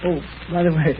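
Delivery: a soft chuckle through the words; chuckling. Acted. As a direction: chuckle while talking, amused. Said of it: "You're, you're chuckling over something now".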